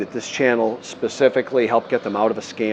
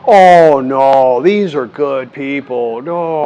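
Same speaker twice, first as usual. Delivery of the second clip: protesting loudly; 4 semitones higher, 10 dB louder, much slower than usual. Retold or imitated. Retold protest at the sailing club.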